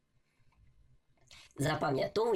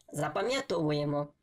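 normal talking voice

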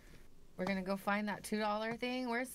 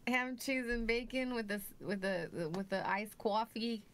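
put-on New York accent. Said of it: "what's your bodega order?".

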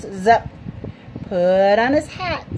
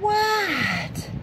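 yelling back; 10 semitones higher, 3 dB quieter than usual. Acted. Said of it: "yelled Froggy".

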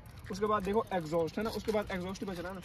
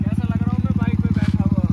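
calling out; 4 semitones higher, 14 dB louder than usual. Real, not acted. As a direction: call it out, higher and louder. Calling out to friend from bike.

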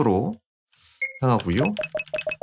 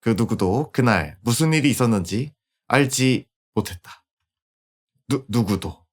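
story narration. A narrator's reading. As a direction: tell the ending like a fable. Epilogue narration.

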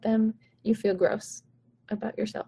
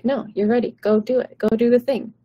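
louder, hyped-up encouragement; mock pep talk, called out with energy; cheering friend; 5 dB louder than usual. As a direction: push them onstage like an excited friend. Friend urging you to perform.

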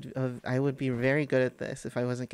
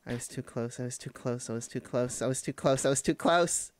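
building frustration. Real, not acted. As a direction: let the frustration grow into a shout. Repeating in frustration after fall.

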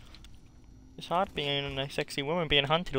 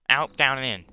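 loud, firm list of steps; loud plan rehearsal; 3 semitones lower, 6 dB louder than usual. Real, not acted. Player rehearsing escape moves, loud and firm. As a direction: call the steps out loudly.

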